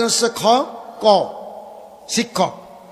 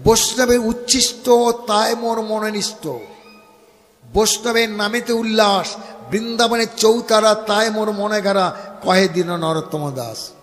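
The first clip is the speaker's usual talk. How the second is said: recited verse. Shown as a demonstration. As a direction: recite the verse in measured, even chant. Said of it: "তাত্ত্বিক কথাটা বুঝে নিতে হবে".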